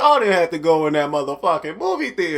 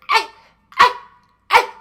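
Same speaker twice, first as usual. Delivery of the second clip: puppy yelps; 7 dB louder than usual. Retold or imitated. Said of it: "Barking like a little puppy dog".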